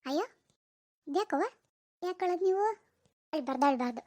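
soft, tender hushing; softly cooed reassurance; soothing a baby. Acted. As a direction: comfort a crying baby gently.

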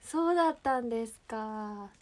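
understated, lingering doubt; doubtful. Acted. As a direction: say it as if quietly suspecting them. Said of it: "疑うような感じで言うみたいな".

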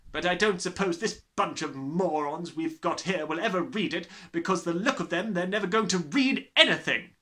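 loud, high, booming tyrant voice; bullying headmistress. Acted. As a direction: gloat like a brutal headmistress. Trunchbull's voice held.

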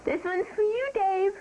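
loud, high DJ-style dedication; radio dedication. Pretend. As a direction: announce it like a radio DJ. Dedication announced into the mic.

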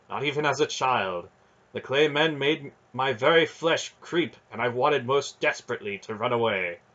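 the proud knight admitting a weakness; earnest knight voice. Acted.

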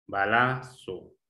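"Balazo" slowly broken into pieces; syllable by syllable. Shown as a demonstration. Teacher testing which syllable is stressed, syllable by syllable. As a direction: sound out "Balazo" in slow syllables. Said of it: "la sílaba tónica".

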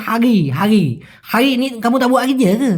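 "হারি" with the r swallowed into a throaty "হাগি"; twisted slang pronunciation. Shown as a demonstration. Teacher showing their twisted slang, slurring "হারি". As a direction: run "কামু তাবু আগে যে গে" together with a twist. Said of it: "প্যাঁচ দিয়ে বলে".

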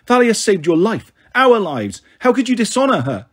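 high, heated indignation; angry. A narrator's reading. Annabeth accuses Luke of betraying Thalia, angry. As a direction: accuse a traitor, close to exploding. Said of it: "so angry I thought she'd explode".

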